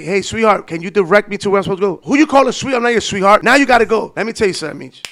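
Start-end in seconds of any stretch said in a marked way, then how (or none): 0.0-2.0 fake sweet. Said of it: "Instead, I'm saying". 2.0-3.4 higher, louder offended snap; mock indignant lady. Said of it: "Instead, I'm saying".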